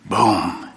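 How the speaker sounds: low, punchy boom; explosive boom. Acted. Speaker imitates a couple's fight going off, low boom. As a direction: drop a low sound-effect boom.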